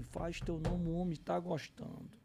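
soft, egging-on aside; softly goading him; quiet urging. Retold or imitated. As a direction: imitate a friend's discreet nudge. Friend urges him on in aside.

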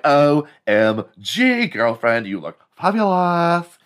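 high, campy gushing; hammed-up, high-pitched camp compliment; flamboyant gay man. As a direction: gush like a stereotyped diva. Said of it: "There's gotta be a gay man out there".

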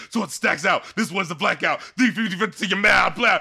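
lightly imitated rap verse; a rapper. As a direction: rattle off the bars, a touch of mock bluster. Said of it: "the rapper's like".

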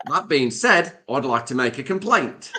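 put-on amused stab at an Australian accent; attempted Australian accent. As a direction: try an Australian accent, close to laughing. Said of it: "should definitely do the accent".

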